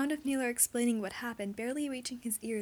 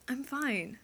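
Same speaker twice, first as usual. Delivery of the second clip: strained; 3 semitones higher than usual. Acted. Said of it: "his voice is too high and strained".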